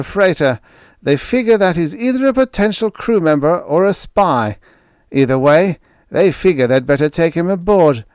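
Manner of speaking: jovial giant shouting introductions; hearty sailor Moore. A narrator's reading. Crewman greets groggy Greg, hearty and loud.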